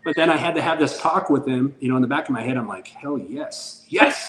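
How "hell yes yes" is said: held-in cheer bursting on the last word; secret jubilation. Retold or imitated. Dad privately cheering on his fighting son, secretly jubilant.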